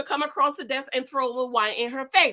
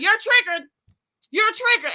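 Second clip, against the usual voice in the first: higher, mocking repeat of the taunt; imitating Crystal; 9 semitones higher, 3 dB louder than usual. Mimicking Crystal taunting Robin with a mock needling voice. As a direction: parrot her needling chant. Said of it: "she's over here talking".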